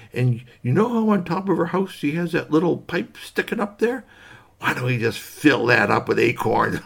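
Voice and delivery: sly squirrel plotting with giggles; mischievous squirrel voice breaking into laughs; scheming squirrel. Acted. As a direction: hatch the plan like a giggling little schemer.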